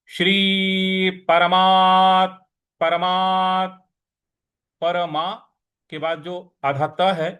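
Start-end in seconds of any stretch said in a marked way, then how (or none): 0.1-3.9 परमात slow, weight on the half त; stress on half t. Shown as a demonstration. Teacher drills stress on परमात्मने. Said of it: "इस पर हमको आघात देना है".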